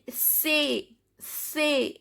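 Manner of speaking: "c'est" said as "say"; "c'est" with no S or T at the end; silent final consonants. Shown as a demonstration. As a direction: say "c'est" ending on an open vowel. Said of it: "S is silent".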